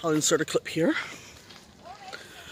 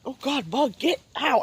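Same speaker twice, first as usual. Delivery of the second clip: startled by a bug; 7 semitones higher than usual. Real, not acted. Swatting a bug away.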